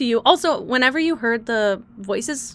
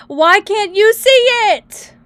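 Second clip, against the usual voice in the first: high and loud, pleading at the screen; exasperated; 9 semitones higher, 10 dB louder than usual. Real, not acted. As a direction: throw the question up in disbelief. Frustrated at stream glitch.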